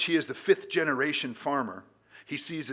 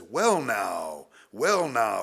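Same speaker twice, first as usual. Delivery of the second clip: drawn-out "well now" with a big swoop in pitch; father's wonderment; 4 dB louder, much slower than usual. Acted. Father greeting his returning soldier son, in wonderment. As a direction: marvel slowly, as an acted father would. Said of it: "greeted by his father's wonderment".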